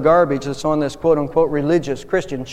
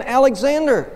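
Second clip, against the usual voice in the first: much higher, raised-voice reply; emphatic answer; 8 semitones higher than usual. A narrator's reading. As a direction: give the name on a high pitch. Soldier answers emperor a second time.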